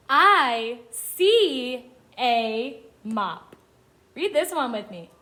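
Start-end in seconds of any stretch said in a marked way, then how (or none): 0.1-3.5 very slow, separated words; each word stretched with a gap after; word-by-word reading. Shown as a demonstration. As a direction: read it out slowly for beginners to follow. Modelling reading for young children.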